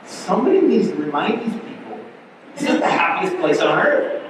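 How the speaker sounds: mock-exasperated remark with a laugh; husband's joking jab to his wife about grumpy crowds; sarcastic aside. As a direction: needle it with a chuckle. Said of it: "I looked at Tracy one time and I said".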